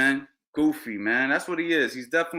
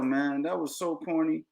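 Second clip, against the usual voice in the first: ordinary delivery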